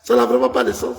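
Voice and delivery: rising heat in a pastor's argument. Real, not acted. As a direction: push the point, getting worked up. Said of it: "calmez-vous".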